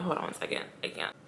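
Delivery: breaking off, near tears, barely voiced; holding back tears. Real, not acted. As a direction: choke up and stop mid-sentence, real. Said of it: "I had to take a little break there".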